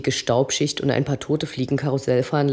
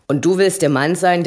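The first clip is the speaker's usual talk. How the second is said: higher, loud scornful jab; mocking; 4 semitones higher, 5 dB louder than usual. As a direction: sneer down at the boy. Eddie verhöhnt Obob. (lauter, verächtlicher Hohn)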